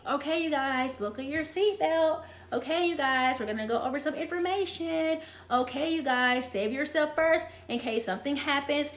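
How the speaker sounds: a hint of a cabin safety announcement; flight attendant voice. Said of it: "that's my flight attendant voice".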